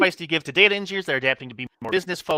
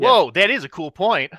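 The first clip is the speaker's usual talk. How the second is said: hyped chatbot impression, a bit louder; ironic zoomer; 3 semitones higher, 5 dB louder than usual. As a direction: play an overexcited Zoomer bot. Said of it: "Mine started talking like a Zoomer".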